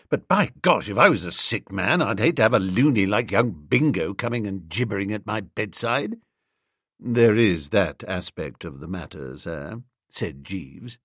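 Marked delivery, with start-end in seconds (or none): none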